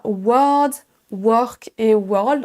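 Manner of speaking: word, work, world with a French O; French learner's O in word, work, world; French-style O. Shown as a demonstration. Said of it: "en prononçant le O à la française".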